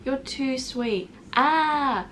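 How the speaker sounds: mock gushing. Her old self thanks the girl, mock gushing. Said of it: "So I said".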